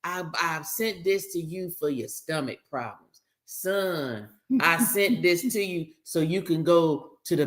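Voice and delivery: half-hearted mock of a doting mother sending pills; mama's voice. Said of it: "your mama send you enough of it".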